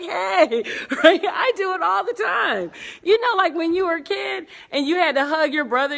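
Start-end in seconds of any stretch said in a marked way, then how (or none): 0.0-0.6 high, loud hey; mock friendly greeting. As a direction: greet fans with put-on cheer. Fake greeting while hugging fans.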